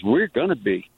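put-on Louisiana accent. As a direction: quote him in a mild Louisiana accent. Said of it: "in his accent".

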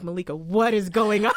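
loud, laughing imitation of a baffled coworker; mock bewilderment. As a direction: imitate a stunned colleague, half laughing. Retells coworker's shocked reaction.

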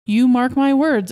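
drawn-out, assertive prediction; emphatic boast. A narrator's reading. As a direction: declare it with great confidence. Husband proudly predicts to wife.

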